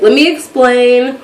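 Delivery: stalling before an awkward confession; retold slow, careful lead-in; slow, dreading preface. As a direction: draw the words out slowly. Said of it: "telling her so slow because I'm, like, dreading her".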